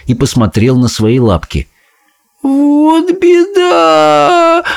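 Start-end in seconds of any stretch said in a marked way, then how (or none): 2.4-4.6 high, slow wailing cry; wailing boy. A narrator's reading. Bruno sees his paws and wails, high and slow. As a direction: wail it like a frightened little boy. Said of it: "заплакал он".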